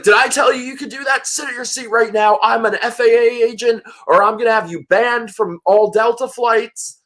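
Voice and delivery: mock angry threat. Self-proclaimed FAA agent threatening a kid with a ban, imitated angry bullying.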